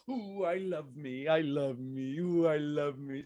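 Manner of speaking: slow, low, cooing ooh I love me; tender self-love. Shown as a demonstration. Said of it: "do the crossover and go".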